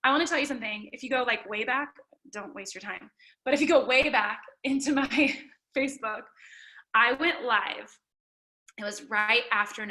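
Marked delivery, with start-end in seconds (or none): none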